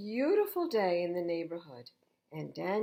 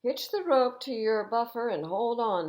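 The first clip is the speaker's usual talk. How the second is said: louder urgent call, a bit higher; 5 semitones higher, 8 dB louder than usual. A narrator's reading. Harold calling down to the stuck engine, urgent. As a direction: shout instructions over the rotors. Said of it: "Harold cried".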